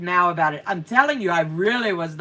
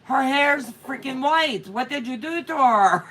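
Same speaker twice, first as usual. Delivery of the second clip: indignant husband; 4 semitones higher than usual. Retold or imitated. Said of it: "He goes".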